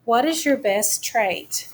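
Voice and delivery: slow read-aloud question. Shown as a demonstration. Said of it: "here is our question".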